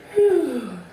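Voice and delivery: high, falling storybook sigh. A narrator's reading. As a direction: let out one audible falling sigh. Contented sigh after bedtime story.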